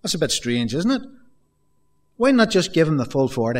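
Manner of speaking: imagined listener. Retold or imitated. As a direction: voice a curious listener's doubts. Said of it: "You might think".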